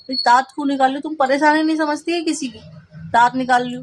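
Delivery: mock telling-off, why are you laughing; retold angry scolding. Scolding the sister-in-law who laughed at her plea, with retold anger. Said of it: "गुस्सा तो इतना आ रहा था".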